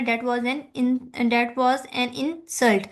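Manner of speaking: slow noun example; slow stress demo. Shown as a demonstration. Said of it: "इन पर ... stress दे रहे हैं".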